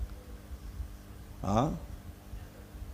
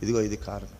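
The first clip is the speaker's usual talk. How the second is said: much softer, lower inner voice; muttering the reason to himself; quiet self-reproach; 5 semitones lower, 10 dB quieter, faster than usual. Retold or imitated. Preacher voicing a child reminding himself why he was beaten, much softer. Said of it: "ఆ నొప్పి గుర్తు చేస్తాను".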